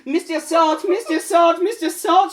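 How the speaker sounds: breathy-free mock ecstatic cries rising; moaning pepper. Missus Pepper answering in reading.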